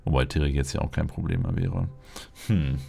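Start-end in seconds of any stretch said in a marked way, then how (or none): none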